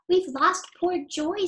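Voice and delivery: upset. Acted. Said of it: "said Robin, upset".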